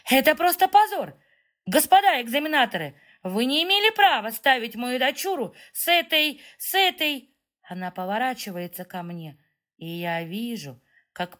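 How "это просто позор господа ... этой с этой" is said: high, loud indignant protest; fast, shrieking demands at the examiners; loud outcry. A narrator's reading. Mother shouting at the examiners, high furious protest. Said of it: "громко кричит".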